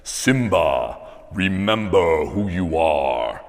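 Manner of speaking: slow, measured James Earl Jones-style king; Mufasa voice. Acted. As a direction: speak it like a father king from the clouds. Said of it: "in the great James Earl Jones voice".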